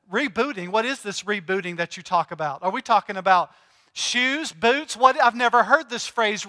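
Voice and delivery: feigning innocent confusion, dripping sarcasm; mock-baffled sarcastic customer; sarcastic mock ignorance. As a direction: play dumb about rebooting. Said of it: "My sarcastic side".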